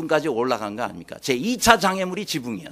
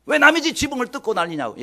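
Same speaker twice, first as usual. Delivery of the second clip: imagined angry scolding, pitched up; 예수님; 5 semitones higher than usual. Acted. Imagining the teacher scolding men who broke the roof, angry. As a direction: act out an indignant telling-off. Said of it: "막 화를 내시면서".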